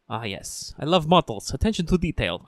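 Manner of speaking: imitating Hans with an uncertain accent; mock Hans accent. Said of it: "I don't know what fucking accent I'm doing".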